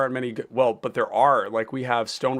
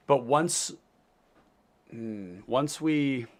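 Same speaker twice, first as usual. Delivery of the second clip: talking between slurps of tea; slurping tea; much slower than usual. Real, not acted. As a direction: sip hot tea mid-sentence. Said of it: "Sorry for the slurping sounds".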